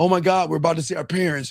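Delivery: put-on, nervous, rushed, fearful, dreading outburst. Mocking men who fear meeting the in-laws: mocking fearful tone. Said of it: "What is this fear with".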